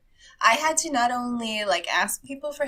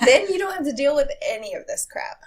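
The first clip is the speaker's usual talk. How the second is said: talking with a mouth full; 3 semitones higher, 5 dB louder than usual. Real, not acted. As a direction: speak through a mouthful of food. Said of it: "put you on the spot with a full mouth".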